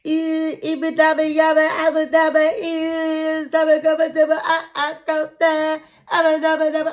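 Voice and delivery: loud, high fervent babbled prayer; hammed-up tongues prayer over him; mock speaking in tongues. Matilda laying hands on Niles at the airport, mock tongues prayer. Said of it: "praying in her tongue language".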